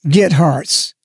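"get" hit hard, "hearts" lighter after it; stress on get. Shown as a demonstration. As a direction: punch "get" as the key word. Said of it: "the biggest message word in that was get".

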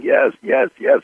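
high breathless mock scream of yes. Shown as a demonstration. Director demonstrating the scene to Meg Ryan, high mock scream. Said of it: "I'm screaming like this".

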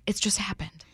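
unvoiced aside; whispered. Real, not acted. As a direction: whisper it as a throwaway.

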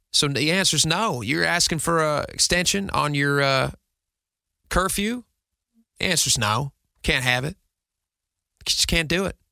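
dad laying down the law in a put-on Southern accent; lightly hammed Southern accent, pretend lecture to the kids; not-very-good Southern accent, firm pretend refusal. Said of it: "I apologize for the Western accent, for the Southern accent".

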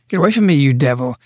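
firm, fast rebuke to Peter; forceful rebuke. Retold or imitated. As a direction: drive the devil off, quick and hard. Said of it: "think of his voice".

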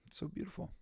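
soft, tearful and high; barely holding back tears; overwhelmed and whispering through tears; choked softly. Real, not acted. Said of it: "made me get all misty-eyed".

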